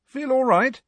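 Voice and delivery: high, gentle check-in; kindly. A narrator's reading. George to a small girl on the floor, kindly. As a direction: ask kindly, pitched well up. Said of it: "said George kindly".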